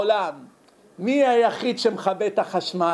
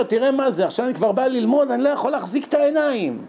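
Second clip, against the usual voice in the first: fast, higher-pitched protest; imitated complaint; 5 semitones higher, faster than usual. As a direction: complain in a quick rush, pitch raised. תלמיד עייף מתלונן בשיעור. (חיקוי תלונה מהירה בקול גבוה)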